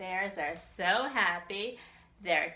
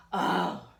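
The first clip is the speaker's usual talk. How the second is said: gasp; 12 semitones lower, 6 dB louder than usual. Acted. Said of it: "gasped little Bob".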